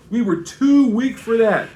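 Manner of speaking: touch of sarcastic self-deprecation. Retold or imitated. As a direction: imitate Paul's sarcasm with a lifted voice. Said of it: "This is another touch of sarcasm here".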